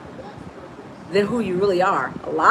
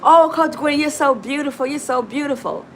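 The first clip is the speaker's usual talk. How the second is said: admiring fans; 4 semitones higher than usual. Retold or imitated. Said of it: "a lot of people say".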